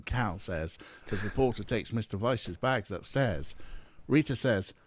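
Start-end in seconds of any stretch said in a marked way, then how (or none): none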